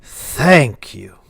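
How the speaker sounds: lightly played tipsy stammer; mildly drunken stuttering thanks; drunk town speaker. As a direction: stumble over the thanks, then push it out. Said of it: "He's obviously drunk as shit".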